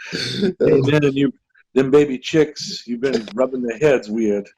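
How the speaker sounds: lightly mimicked Alabama cop; hint of Alabama accent. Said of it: "That's all our Alabama accents".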